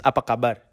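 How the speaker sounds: teaching "Apa kabar" word by word; "Apa kabar" like a patient teacher; Indonesian demo. Shown as a demonstration. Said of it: "How are you is".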